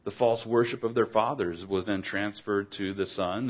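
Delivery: ordinary talk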